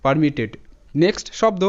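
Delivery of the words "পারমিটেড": পারমিটেড ending almost on a ট; final D near T. Shown as a demonstration. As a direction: let the last ড of পারমিটেড sound like ট. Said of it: "কিছুটা টয়ের মতো উচ্চারিত".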